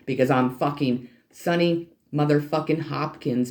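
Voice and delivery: ordinary delivery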